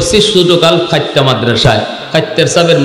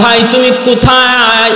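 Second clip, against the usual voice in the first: retold amazed question; 7 semitones higher than usual. Retells asking the strange driver.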